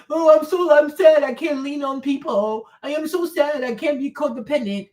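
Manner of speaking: whiny put-on self-pity, held on one note; mock crying. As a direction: make fun of someone moping. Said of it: "Why are you crying".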